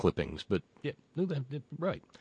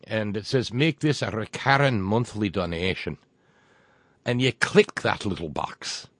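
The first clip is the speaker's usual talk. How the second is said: put-on crummy Irish accent. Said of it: "my crummy Irish accent yet".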